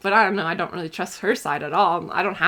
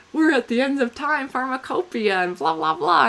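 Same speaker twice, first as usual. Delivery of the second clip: therapist voice; 6 semitones higher, 4 dB louder than usual. Retold or imitated. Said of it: "she's like".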